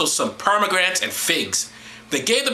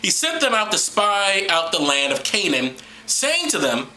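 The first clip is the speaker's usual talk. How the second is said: scripture reading; 5 semitones higher than usual. Acted. Reads scripture aloud to listeners.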